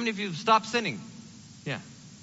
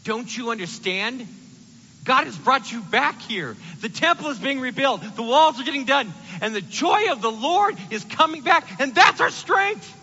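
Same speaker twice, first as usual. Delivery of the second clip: rousing encouragement; 6 semitones higher, 7 dB louder than usual. Retold or imitated. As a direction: build from coaxing to triumphant shout. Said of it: "Nehemiah tells them".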